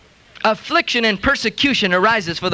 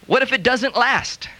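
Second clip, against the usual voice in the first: doubtful question; slower than usual. Retold or imitated. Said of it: "more negative, faith-stealing, unbelieving statement".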